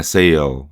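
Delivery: "Sail" low, ending in a light L; lighter L ending. Shown as a demonstration. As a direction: let the end of "Sail" fall away lightly. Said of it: "aquele som mais leve".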